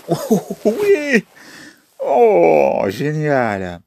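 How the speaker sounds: high, loud whoops of joy; excited cheer. Real, not acted. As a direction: cheer as the answer lands. Cheers a right answer.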